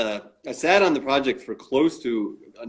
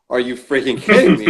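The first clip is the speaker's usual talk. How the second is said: amazed disbelief; 7 dB louder than usual. Retold or imitated. Retold amazement at nearby studio.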